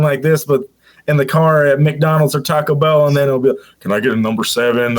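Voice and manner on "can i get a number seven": deep, lowered ordering voice; drive-through voice. Shown as a demonstration. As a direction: drop the pitch to order at the speaker. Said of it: "call that my drive-throughs voice".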